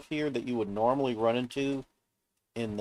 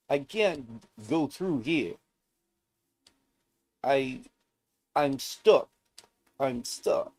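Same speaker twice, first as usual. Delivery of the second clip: higher, louder, slower stuck-guy voice; impression of a dude; 4 semitones higher, 5 dB louder, slower than usual. Player mimicking a guy stuck in the volcano, mock frustrated yell. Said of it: "I'm trying to do an impression of, uh, that one dude".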